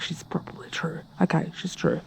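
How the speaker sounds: soft whispered concession; whispered admission. Real, not acted. Vlogger admitting her mum was right, whispered. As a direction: whisper it like a confession.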